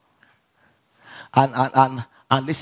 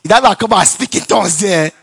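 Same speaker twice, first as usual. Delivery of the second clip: laughing retort; 6 semitones higher, 7 dB louder than usual. Retold or imitated. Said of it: "I said".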